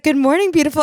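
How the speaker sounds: lightly voiced older man greeting; a hint of a cheerful older man. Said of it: "he was like".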